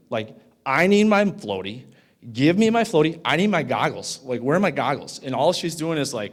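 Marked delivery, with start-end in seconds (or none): 0.6-5.2 put-on louder, pleading child yelling for his floaty; mock a panicked little boy begging; retold kid screaming. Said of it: "he is screaming bloody murder".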